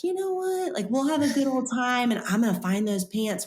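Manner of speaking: sudden high-pitched eager burst; excited. Retold or imitated. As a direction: pitch it up like a plan just hatched. Excited plan for mall day.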